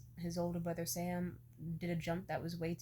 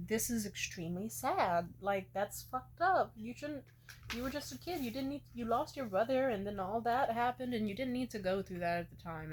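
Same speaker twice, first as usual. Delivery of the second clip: retold tearful sympathy; 5 semitones higher, 4 dB louder than usual. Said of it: "And I started crying".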